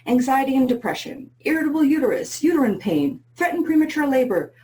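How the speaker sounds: upbeat salesy list read; infomercial voice. Pretend. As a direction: pitch it like a TV ad announcer. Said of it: "in my best infomercial voice".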